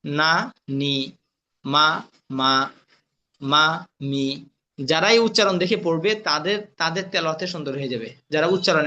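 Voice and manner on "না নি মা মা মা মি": "না", "নি", "মা", "মি" each alone, with a pause after; one sound at a time. Shown as a demonstration. Teacher showing how to read singly, "না … নি" held apart. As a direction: sound out "না … নি", "মা … মি" without joining them. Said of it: "একটা একটা উচ্চারণ দেখবেন".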